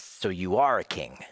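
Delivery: mock concession with a hint of sarcasm; sarcastic. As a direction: say it as a sarcastic conclusion, leaning on "are". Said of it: "I think a lot of sarcasm".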